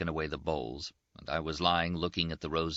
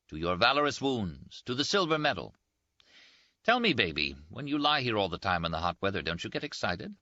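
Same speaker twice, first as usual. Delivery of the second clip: lightly voiced Rinaldi, a bit higher and teasing; teasing Italian friend; 5 semitones higher than usual. Rinaldi teases his wounded roommate, lightly voiced higher banter. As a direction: toast him with mocking cheer.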